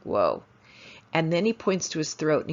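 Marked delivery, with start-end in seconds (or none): 0.0-0.4 retold whoa. Reacting to boy's symptoms.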